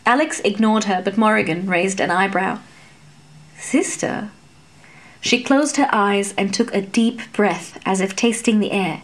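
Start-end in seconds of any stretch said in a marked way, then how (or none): 3.6-4.3 unvoiced, softly sniffing out a secret; breathy whisper. A narrator's reading. Fairy whispers the title, tasting it, hushed. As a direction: whisper it like a discovery.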